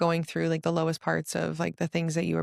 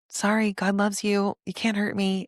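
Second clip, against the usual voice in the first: sarcastic and silly; 4 semitones higher than usual. Shown as a demonstration. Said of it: "now we just do it kinda, like, sarcastically and silly".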